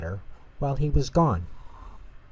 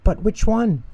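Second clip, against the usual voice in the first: high, fretful squeak of a question; a mouse torn between cheeses; anxious high-pitched dilemma; worried little mouse; 12 semitones higher, 7 dB louder than usual. A narrator's reading. Tutter fretting over cheese.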